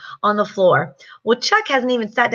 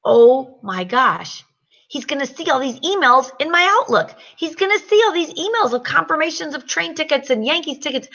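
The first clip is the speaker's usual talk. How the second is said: panicked thought; 5 semitones higher than usual. Retold or imitated. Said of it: "And I'm like".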